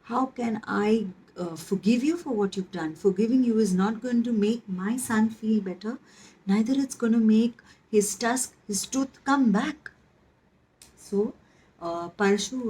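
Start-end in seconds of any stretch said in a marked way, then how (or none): 0.0-9.9 mildly angry, indignant rebuke, rising toward the end; furious. Acted. Goddess Parvati rebukes her son's attacker, mildly furious. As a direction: scold with a touch of outrage, building in pitch. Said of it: "Goddess Parvati was furious. She said".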